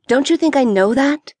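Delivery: snapped. Acted. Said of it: "Potts snapped".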